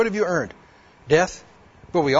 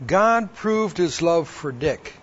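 each word of "God proved his love for Dick" drawn out slowly; rereading the verse to himself in wonder; slow, savoring reread; slower than usual. Retold or imitated. Slowly rereading the verse, letting it sink in. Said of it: "I read that verse again".

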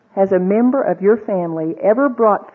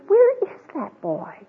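exasperated mother; 12 semitones higher, 3 dB quieter than usual. Acted. Mary frantic searching.

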